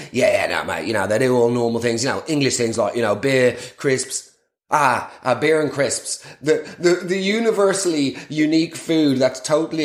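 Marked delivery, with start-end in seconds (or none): 0.1-4.3 imitating Chezza. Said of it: "Chezza reply".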